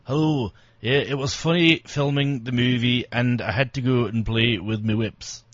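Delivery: lightly put-on Scottish accent; hint of a broad Scottish accent. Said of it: "this terrible Scottish accent".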